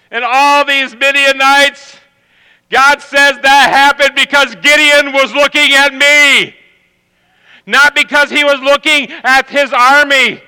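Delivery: rising, fervent sermon delivery; preaching. Acted. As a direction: preach it to the room with conviction. Preaches to the congregation.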